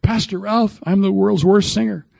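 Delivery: imitating a listener. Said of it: "You say".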